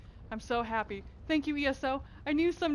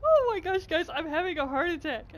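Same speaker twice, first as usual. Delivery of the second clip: louder, higher happy exclamations; excited squeals; 3 semitones higher, 6 dB louder than usual. Real, not acted. Gamer still squealing over her new mount. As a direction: gush with delight. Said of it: "with my screaming".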